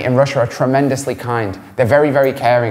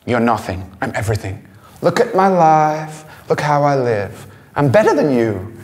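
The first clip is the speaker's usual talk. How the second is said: put-on arrogant Instagram girl. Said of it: "they have this emotion in their face".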